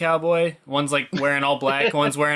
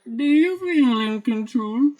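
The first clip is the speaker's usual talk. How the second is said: mock villain; 9 semitones higher than usual. Repeating the line in voice.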